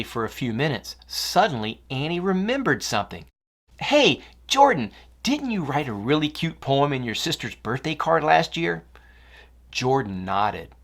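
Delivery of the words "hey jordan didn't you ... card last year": light up with a sudden idea; sudden excited remembering. Acted.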